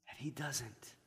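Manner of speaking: soft unvoiced whisper. Real, not acted. Preacher to his congregation, hushed whisper. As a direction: breathe it to the congregation. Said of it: "whispered sermon line".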